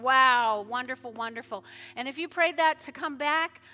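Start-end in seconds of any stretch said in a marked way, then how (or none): 0.0-1.6 loud, delighted cry of wonder; heaven's joy. Retold or imitated. Pastor voicing heaven celebrating a new believer, loud and delighted. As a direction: voice heaven rejoicing. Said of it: "heaven is just going".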